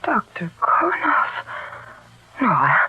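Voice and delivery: stunned and tearful denial; shocked disbelief. Acted. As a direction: let the betrayal break your voice. Shocked at the doctor's betrayal.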